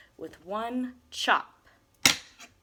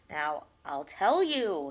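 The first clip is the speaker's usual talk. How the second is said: put-on old Onceler voice; 5 semitones lower, 4 dB louder, slower than usual. A narrator's reading. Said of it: "with his teeth sounding gray".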